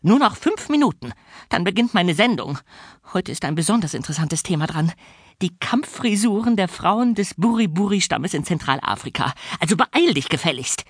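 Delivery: put-on high, shrill shrieking old spinster; nasty orphanage warden screeching; shrieking matron. A narrator's reading. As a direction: screech the insults down at him. Fräulein Schimmel nagging.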